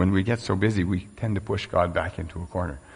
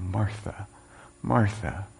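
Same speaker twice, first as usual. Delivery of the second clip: soft, gentle calling of her name; softer, tender Martha, Martha; caring Jesus; 2 semitones higher, 4 dB quieter, slower than usual. Acted. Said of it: "Jesus' response is one that's full of care".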